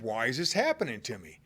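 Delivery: quiet wondering. Acted. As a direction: ask it quietly to yourself. Jesus wondering inwardly.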